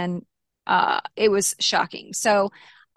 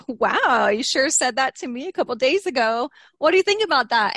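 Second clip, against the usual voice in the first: smart-ass taunting; 4 semitones higher than usual. Retold or imitated. Wife taunting husband about his texts, smart-ass and rising. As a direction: rub it in, teasing and cocky. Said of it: "kind of being a smart ass".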